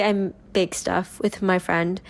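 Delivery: usual speaking voice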